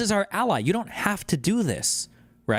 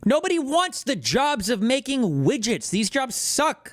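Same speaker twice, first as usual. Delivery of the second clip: higher, insistent, leaning on each line; exasperated arguing; 4 semitones higher than usual. Real, not acted. Arguing back about jobs.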